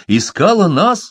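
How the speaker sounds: startled exclamation, high and loud; exclaiming. A narrator's reading. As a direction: exclaim it in disbelief. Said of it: "воскликнул Фолка".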